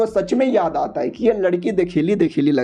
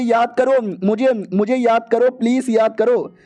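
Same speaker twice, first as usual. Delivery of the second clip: slow, higher pleading plea; 3 semitones higher, slower than usual. Acted. Witch slowly begging the hero to remember her, pleading. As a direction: beg him to remember, drawn out.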